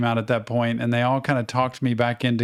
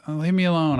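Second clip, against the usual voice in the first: put-on mildly irritated kid brushing off his sister; a touch of annoyance, pushing her away; 5 semitones higher than usual. Sleepwalking boy irritated at his sister's question. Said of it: "I was irritated".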